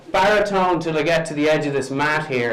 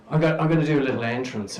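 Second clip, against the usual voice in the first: quick aside; much faster than usual. Shown as a demonstration. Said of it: "to just go".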